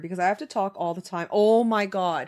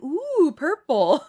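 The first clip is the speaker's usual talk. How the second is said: higher, sure of herself, lightly imitated; convinced exclamation; 5 semitones higher, 5 dB louder, slower than usual. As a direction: replay her confident blunder. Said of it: "I said it with such conviction".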